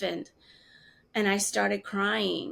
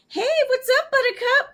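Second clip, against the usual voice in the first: high, bright mock mom voice, louder; mom's sing-song greeting; 7 dB louder than usual. Daughter imitating mom's cheery phone greeting, high and loud. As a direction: chirp it like a cheery mother.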